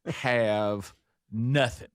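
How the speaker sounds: slow, drawn-out exasperation; exasperated groan. Retold or imitated. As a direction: drag it out in frustration. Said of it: "And I'm like".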